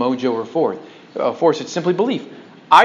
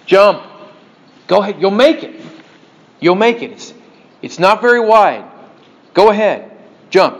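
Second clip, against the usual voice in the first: louder, calling across the crevasse; urging voice; 3 semitones higher, 5 dB louder than usual. Retold or imitated. Voice through the blizzard urging the hiker, louder call. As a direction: coax the climber to jump. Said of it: "you hear a voice say".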